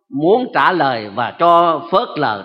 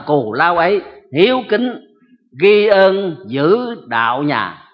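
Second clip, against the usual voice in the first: poem recitation. Acted. Preacher reciting a poem on parental love to the congregation, solemn and measured. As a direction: recite each line with reverent weight.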